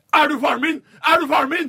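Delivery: put-on shrill, shrieking, child-like, very high scream at full volume. Telling a story, acting out a child yelling at the last man in the room: acting out a child screaming. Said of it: "før han skriker".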